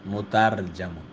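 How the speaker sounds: مترجمن said slowly as "mutarjamun"; careful pronunciation. Shown as a demonstration. Teacher repeating the word after naming its vowel, careful pronunciation. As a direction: stretch مترجمن, with zabar on the jeem. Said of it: "جیم پہ زبر ہے".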